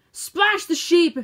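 rally the geese with a yell. A narrator's reading. Goose ordering the other geese to splash the sheep, a loud slow yell. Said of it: "Then he yelled".

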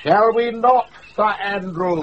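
laughing tease. Acted. Teasing, laughing.

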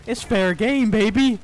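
loud, high, cocky excitement; hyped trash talk. Real, not acted. Player hyped for a one v one, hyped trash talk. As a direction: crow it loudly.

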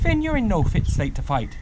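high-pitched protest from the first word; high storybook exclamation; exclaiming wife. A narrator's reading. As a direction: protest to your husband in alarm. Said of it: "Una exclaimed".

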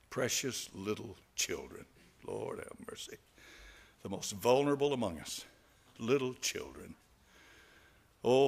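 earnest pastor's prayer voice; closing prayer. Acted. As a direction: pray over the parents and children. Closing prayer over congregation.

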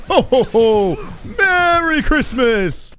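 慢悠悠的圣诞老人腔，稍高稍响; 拖长音装成圣诞老人吆喝; mock Santa. Streamer voicing the Santa killer.

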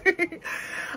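airless, whispered giggle; breathy laugh. Real, not acted. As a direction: laugh almost silently. Laughs after her own joke.

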